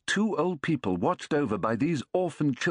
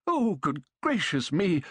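excited exclaiming; 5 semitones higher than usual. A narrator's reading.

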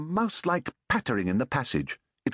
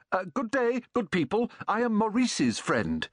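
higher, called out across the room; calling out loudly; 8 semitones higher than usual. A narrator's reading. Visitor calling loudly from the threshold to the old folks. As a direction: call out a greeting from the doorway. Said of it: "I called out very loudly".

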